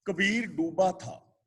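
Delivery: ਕਬੀਰ ਡੂਬਾ ਥਾ slowly, then a clear pause; pause after phrase. Shown as a demonstration. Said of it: "ਇੱਥੇ ਵਿਸਰਾਮ ਲਗਾਵਾਂਗੇ".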